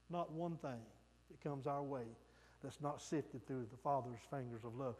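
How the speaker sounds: preacher comforting the congregation, softly; tender assurance. Real, not acted. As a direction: reassure the grieving gently. Tender assurance of God's love.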